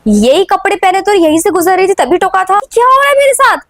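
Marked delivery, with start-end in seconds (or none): 2.7-3.6 high, puzzled self-question; asking herself in confusion, pitched up; bewildered. Acted. Girl confused by déjà vu, asking herself bewildered.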